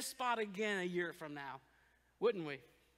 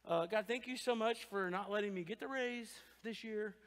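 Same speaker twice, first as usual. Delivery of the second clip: sarcastic prayer; 5 semitones lower, 3 dB quieter than usual. Pretend.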